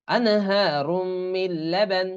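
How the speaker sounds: slow, sustained আনহারুম মিন লাবান; merged lam. Shown as a demonstration. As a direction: say মিন লাবান as mil-laban. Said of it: "এরকম উচ্চারণ হবে".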